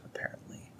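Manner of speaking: dry whispered apparently; whispered aside. Real, not acted. Joking aside to viewers after a verse, whispered. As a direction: breathe it as a sly aside.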